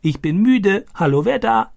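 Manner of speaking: high, croaky parrot imitation; boy imitating the talking parrot, high and croaky; croaking parrot. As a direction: squawk each phrase like the parrot Boga. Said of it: "Stani krächzte diese Sätze wie Boga".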